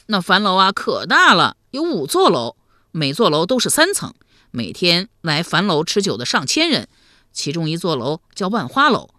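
put-on loud, lively boyish telling; eager youngster spilling the story; artless young nephew. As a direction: rattle it off like a frank lad.

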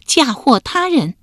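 slow, word by word, high; staccato. A narrator's reading. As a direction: spell out each word deliberately. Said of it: "一字一顿地说".

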